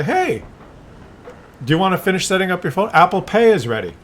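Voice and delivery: lightly voiced phone prompting cheerfully; a pushy gadget nagging its owner; mock phone prompt. Phone nags again.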